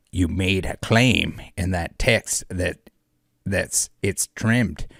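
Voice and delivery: lightly voiced cowboy villain, slowing on key lines; evil cowboy. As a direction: read it out as a mild put-on evil cowboy. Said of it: "the evil cowboy".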